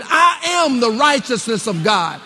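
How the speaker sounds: emphatic, full-voiced declaration; preacher modelling a bold confession; like you mean it. Shown as a demonstration. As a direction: declare it with total conviction. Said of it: "Say it like you mean it".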